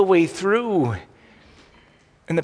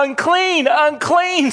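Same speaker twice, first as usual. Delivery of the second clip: high, loud leper's cry of "Unclean"; 11 semitones higher, 4 dB louder, much slower than usual. Retold or imitated. Leper warning crowds to keep away, loud high call. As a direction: call it out so the whole street hears. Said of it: "you had to cry".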